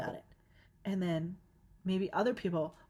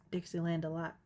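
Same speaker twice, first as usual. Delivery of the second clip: Southern accent; 3 dB quieter than usual. Shown as a demonstration. Podcaster demonstrating how she misheard a country lyric, Southern accent. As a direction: say "Dixieland a lot" with a Southern twang. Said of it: "that was my Southern accent".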